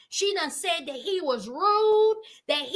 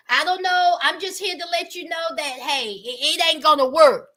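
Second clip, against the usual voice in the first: blunt brush-off; 3 semitones lower than usual. Retold or imitated. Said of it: "he said".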